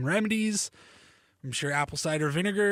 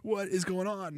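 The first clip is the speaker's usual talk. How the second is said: quick and much softer, half-choked; softer, rushed, mock-pathetic crying to yourself; teary self-mockery; 3 semitones higher, 6 dB quieter, faster than usual. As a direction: mutter it fast under your breath like you're fighting tears. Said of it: "But I was just like".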